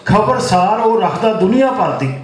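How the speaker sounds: lilting mushaira verse, phrase by phrase; poem recitation. Acted. Poet praising his friend to the gathering, lilting recitation. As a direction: repeat the opening line, settle onto the refrain.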